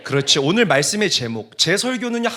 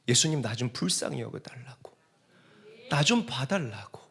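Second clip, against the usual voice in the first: low, soft begging; hushed plea; 3 semitones lower, 6 dB quieter than usual. Acted. Blind men begging Jesus for pity, hushed plea. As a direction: plead quietly for mercy, almost under the breath.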